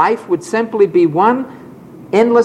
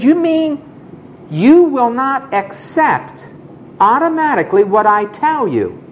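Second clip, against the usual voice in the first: astounded; 8 semitones higher than usual. Retold or imitated. Flabbergasted president questioning the defiant student, much higher. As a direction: sound stunned and disbelieving. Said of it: "He said, astounded".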